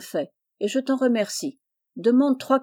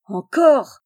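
loud, higher-pitched outburst; exasperated cry; 5 semitones higher, 8 dB louder than usual. A narrator's reading. Kérsak hearing Jeannot's name once more, exasperated cry. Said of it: "S'écria Kérsak".

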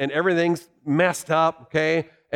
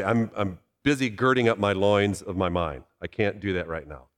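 mock busy excuse; 8 semitones lower, 4 dB quieter than usual. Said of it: "No one, no one talks like that".

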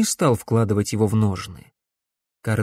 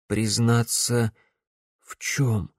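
Alex asks hoarsely, stunned; slower than usual. A narrator's reading. Stunned son asks in a hoarse hush. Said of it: "осипшим голосом спросил Алекс".

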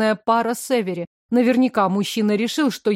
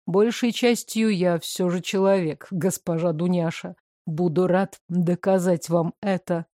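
lower, even male voice; calm man; 4 semitones lower, 3 dB quieter than usual. Acted. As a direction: play him calm and reserved.

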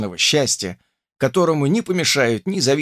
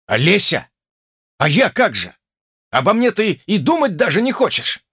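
exclaimed; 7 semitones higher, 3 dB louder than usual. A narrator's reading. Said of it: "воскликнул я".

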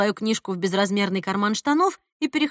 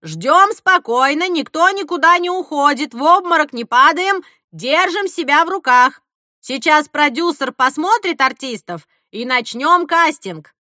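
raised voice for the whole crowd; loud crowd address; 5 semitones higher, 7 dB louder than usual. Acted. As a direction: project to calm a crowd.

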